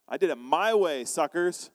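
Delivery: mock cocky bragging, punched out; hammed-up pride, in separate bursts; prideful boasting. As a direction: gloat like you beat everyone. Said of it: "It's the pride of man saying".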